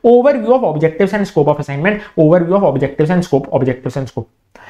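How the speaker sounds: slow, word by word dictation. Shown as a demonstration. Teacher dictating the key phrase to students, very slow. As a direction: spell it out slowly for notes.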